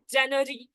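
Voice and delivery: genre misread as "January"; "January" in place of genre; students' mispronunciation. Retold or imitated. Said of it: "they'll be pronouncing it as".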